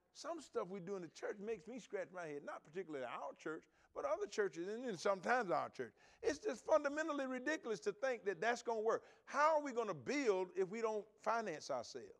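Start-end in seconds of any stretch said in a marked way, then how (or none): none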